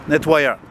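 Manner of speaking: nettoyeur said in French, stress on the last syllable, ending in a French r; French pronunciation. Shown as a demonstration. Vlogger repeating the French word nettoyeur for viewers, in French. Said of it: "nettoyeur is French for".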